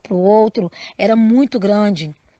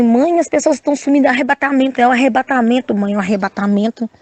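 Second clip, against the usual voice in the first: desperate; 2 semitones higher, faster than usual. Retold or imitated. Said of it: "eu comecei a desesperar".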